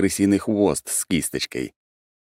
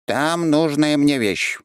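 curt creature; 11 semitones higher, slower than usual. A narrator's reading. Creature answers curtly.

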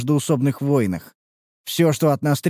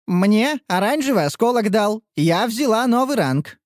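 proud; 8 semitones higher than usual. A narrator's reading. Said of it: "с гордостью".

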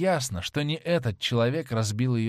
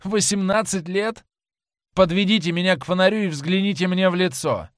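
higher, louder triumphant cry; 8 semitones higher, 6 dB louder than usual. A narrator's reading. Dorian, saved, triumphantly tells his attacker to look. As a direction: crow it out in triumph, high and loud. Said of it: "в голосе у него послышалось торжество".

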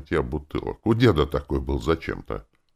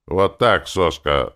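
pleased gloat; 2 semitones higher, 5 dB louder, slower than usual. Acted. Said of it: "довольно проговорил".

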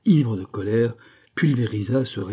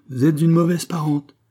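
raised, louder majestic reproach; majestueux; 7 semitones higher, 5 dB louder than usual. A narrator's reading. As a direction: declare it grandly to the aunt. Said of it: "dit-il majestueusement". (reproche majestueux, voix haute et forte)

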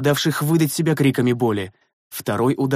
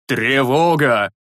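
slow hoarse cry of alarm; hoarse shout; 3 dB louder, much slower than usual. A narrator's reading. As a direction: rasp out the alarm, half asleep. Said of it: "хрипло крикнул".

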